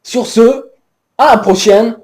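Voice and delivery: lightly voiced Québécois presenter; a hint of a Quebec accent, upbeat. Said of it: "qui nous vient tout droit du Québec". (léger accent québécois)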